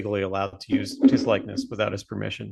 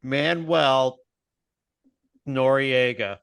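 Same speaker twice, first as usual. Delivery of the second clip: smug pitch; 3 semitones higher, much slower than usual. Retold or imitated. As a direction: sell the idea with a slow, smug pause. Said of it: "they're just like".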